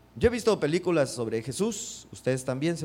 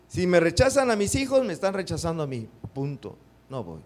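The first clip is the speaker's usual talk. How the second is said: offended refusal. Retold or imitated. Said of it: "Así decíamos".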